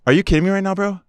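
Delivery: can't believe what he hears; outraged. Retold or imitated. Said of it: "And I was like".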